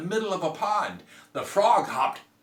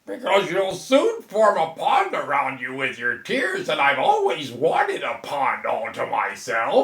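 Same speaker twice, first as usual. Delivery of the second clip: a slightly louder cheeky frog voice; frog character; 7 dB louder than usual. Acted. Frog teasing the girl, cheeky and a touch louder. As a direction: play the sly frog.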